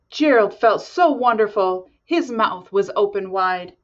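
lively storybook narration; reading to children. A narrator's reading. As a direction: read it like bedtime story. Reads picture book aloud.

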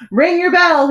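high, loud call. A narrator's reading. Boy rouses the royal bell ringer, calling out. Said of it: "he called".

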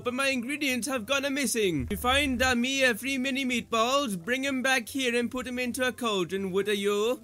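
lightly hammed-up Italian chef; Italian chef character. Chef asking for missing meatballs, lightly mock Italian.

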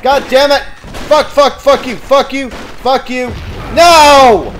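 high, loud volley of curses; real gamer rage; frantic angry cursing. Real, not acted. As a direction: curse desperately at the attacker, ending in a yell. Cursing as he is killed.

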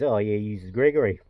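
put-on English accent. English traveller explaining slang, imitated English accent. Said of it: "Heard it from an English guy".

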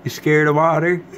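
teasing pet talk. Real, not acted. Teasing pet about water.

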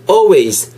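always with a silent L, said olways. Shown as a demonstration. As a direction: drop the L in always. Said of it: "L 사운드, 묵음이라는 거".

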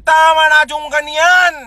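fed-up shout. Real, not acted. Telling commenters to stop, in a fed-up shout. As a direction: bark it out, done with it.

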